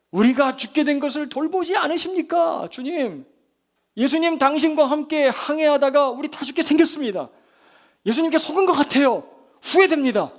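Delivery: high, loud panicked complaint; fearful outburst. Acted. Frightened disciples blaming Jesus, high loud outcry. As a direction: blurt it out in desperate protest. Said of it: "두려움으로 막 그렇게 내뱉는".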